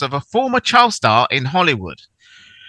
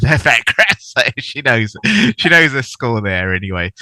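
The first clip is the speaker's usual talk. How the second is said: put-on light London accent, casual; 3 semitones lower than usual. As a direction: slip into a bit of London accent. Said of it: "I'm going into my little London accent there anyway".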